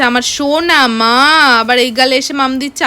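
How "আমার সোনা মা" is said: slow, drawn-out endearment; affectionate child imitation. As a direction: imitate a little one fondly calling mum. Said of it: "ওর না বেশ আদর করে ডাকে".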